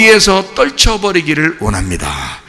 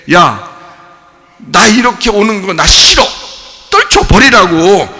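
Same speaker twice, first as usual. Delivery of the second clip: loud, higher, slowing as he drives it off; shouting; 4 semitones higher, 4 dB louder than usual. Acted. Preacher voicing the believer repelling sorrow, shouting. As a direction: shove the words away hard. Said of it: "이게 아포티나소라고요".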